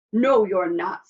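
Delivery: loud, firm troll refusal; troll's roar. A narrator's reading. Troll blocking the little goat, loud roaring voice. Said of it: "roared the troll".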